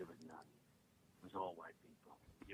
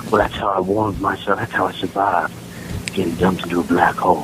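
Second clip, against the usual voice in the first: loud celebrity impression; 18 dB louder than usual. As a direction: boast it in the big celebrity voice. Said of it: "my impression".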